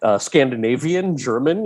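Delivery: mock-helpful list of options; cocky smart-aleck. Young actor schooling casting people, cocky smart-aleck. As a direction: reel off choices with cheek, drawing some out. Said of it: "the shit-eating twenty-two-year-old who was trying to school them".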